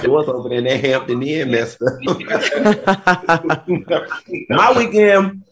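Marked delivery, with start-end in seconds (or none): 2.0-4.4 high laugh. Real, not acted. Laughs at her own joke.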